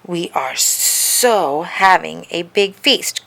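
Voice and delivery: put-on slow, insistent girl's retort; snapped. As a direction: dig in and snap back at him. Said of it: "Carla snapped".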